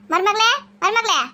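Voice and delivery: slow, drawn-out call of a bossy mother-in-law. Acted. Mother-in-law wakes her daughter-in-law with a slow call. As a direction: stretch each call across the house.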